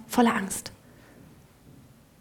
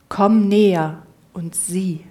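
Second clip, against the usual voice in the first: lower, louder and slow, a big commanding call; 4 semitones lower, 6 dB louder, slower than usual. Acted. The cat pretending to be God calls the mouse, loud and slow. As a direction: boom it out slowly like a hidden giant. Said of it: "antwortet mit lauter Stimme".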